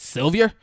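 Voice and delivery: "Sylvia" mangled to end in "-yer", loud and high; mispronounced Sylvia. Retold or imitated. Rolf who can't say Sylvia, loud rising "Sylvia" with "-yer" ending. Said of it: "he can't say Sylvia".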